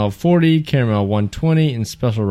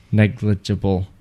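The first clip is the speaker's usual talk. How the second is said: careful enunciation; 3 semitones lower than usual. Real, not acted. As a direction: take each syllable of Negligible with care. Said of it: "That's hard to say".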